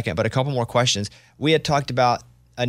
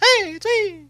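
squeaked out, very high-pitched; 3 dB louder than usual. Asked whether he ever does the voice, he answers: Mickey Mouse voice. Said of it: "You ever do the Mickey voice?".

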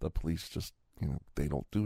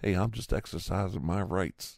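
usual speaking voice

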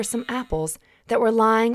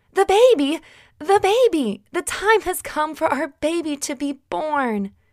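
yelling in great excitement; 7 semitones higher than usual. Shaking Joseph awake in the hay, Mary is yelling in great excitement. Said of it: "she yelled in great excitement".

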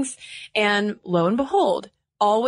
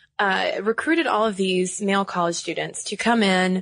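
ordinary talk, nothing marked

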